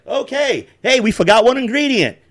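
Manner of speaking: high mock voice; chirpy cooking-show impression; imitating the vlogger. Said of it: "he's just like".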